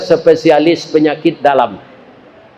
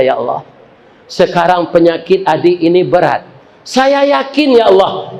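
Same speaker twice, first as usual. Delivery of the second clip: tearful prayer. Acted. Director prays after reading referral.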